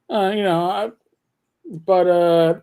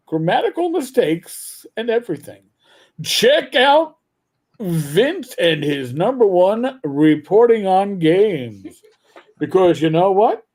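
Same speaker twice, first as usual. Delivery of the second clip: light radio announcer delivery; a hint of a radio host plug. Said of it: "I gotta prep my radio voice".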